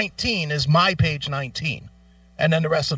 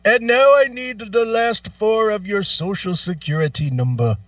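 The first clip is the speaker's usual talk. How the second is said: mock phone agent; 5 semitones higher, 4 dB louder than usual. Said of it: "and he goes".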